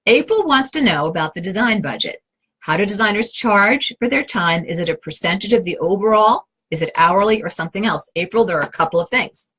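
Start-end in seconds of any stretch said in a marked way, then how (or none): 2.6-8.1 measured, more careful reading of a question; slow down and separate each question; a little more slowly. Real, not acted. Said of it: "I'll say it a little more slowly".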